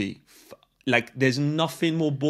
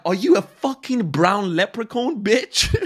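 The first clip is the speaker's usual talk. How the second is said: mock angry barman; 6 semitones higher, 6 dB louder than usual. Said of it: "They'll be like".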